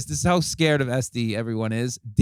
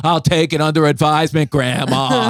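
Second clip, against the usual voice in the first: mock-polite dismissal, a bit louder; comic brushing off a younger friend's nagging about smoking; dry brush-off; 2 semitones higher, 4 dB louder than usual. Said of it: "he just goes".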